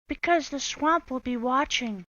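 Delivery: high, loud threatening question; menacing witch. Acted. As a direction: warn the class. Swamp warning class.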